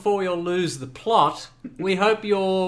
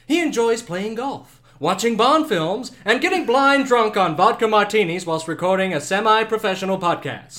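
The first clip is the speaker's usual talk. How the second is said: game show host; 3 dB louder than usual. Acted. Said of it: "I'm your host".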